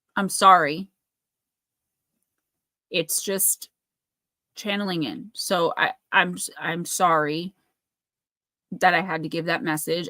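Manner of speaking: emotional voice on the verge of crying. Speaker apologizing after channeling and giving a message: emotional, near tears. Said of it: "I feel very emotional right now, like I'm gonna cry".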